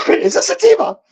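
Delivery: high cackling witch voice; Wicked Witch voice. Acted. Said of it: "I sounded like the Wicked Witch".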